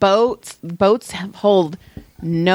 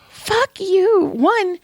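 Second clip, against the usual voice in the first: mock snap; 12 semitones higher, much slower than usual. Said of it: "But I was like".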